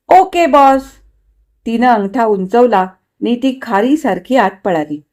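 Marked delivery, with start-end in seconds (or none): 0.1-0.8 high, gleeful reply; delighted agreement. A narrator's reading. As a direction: chirp a happy yes at a raised pitch. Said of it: "अतिशय आनंदात". (आनंदाने, उंच स्वरात)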